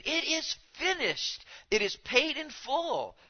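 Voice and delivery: high, slow, resounding triumphant shout; ringing declaration of triumph, drawn out; cry of victory. Shown as a demonstration. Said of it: "as a cry of victory".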